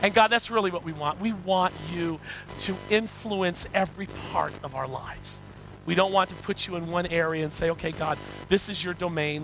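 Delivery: earnest, measured pastoral prayer; congregational prayer. Real, not acted. Preacher thanking God for his word, congregational prayer. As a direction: lead the congregation in sincere prayer.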